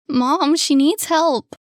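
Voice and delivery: high, loud, slow begging; desperate plea. Acted. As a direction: beg her to help. Boy begs mother.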